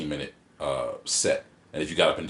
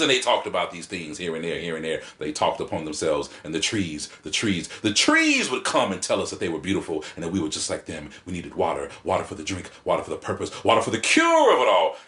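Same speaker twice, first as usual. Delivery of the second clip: A spoken-word poet. Retold or imitated. Imitating the poet in performance, in preacher cadence building to a cry. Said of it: "it's like a Baptist preacher".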